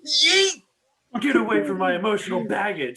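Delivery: loud, high, laughing yell; laughing shout. Real, not acted. Yelling while laughing.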